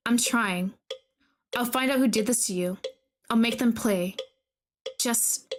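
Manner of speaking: calm measured storytelling; story narration. A narrator's reading. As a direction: read the horror text evenly. Reads game narration.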